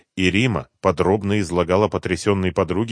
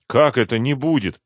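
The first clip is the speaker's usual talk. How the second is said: a touch of alarmed disbelief; grandma caught off guard; gasped question; 6 semitones higher, 5 dB louder than usual. Acted. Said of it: "ахнула бабушка".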